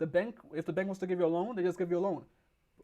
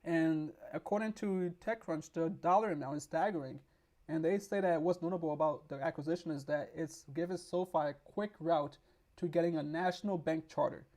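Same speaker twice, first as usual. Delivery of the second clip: normal talking voice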